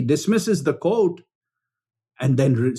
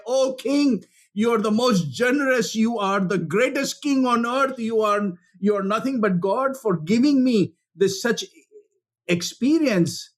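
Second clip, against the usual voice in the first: higher, gushing praise for the king; fawning flattery; 5 semitones higher than usual. Retold or imitated. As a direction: lay the flattery on thick. Woman expected to flatter king.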